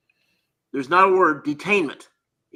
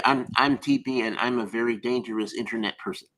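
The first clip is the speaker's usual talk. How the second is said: Tyrant Buster impression; 3 semitones lower than usual. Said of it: "you gotta talk a little slower".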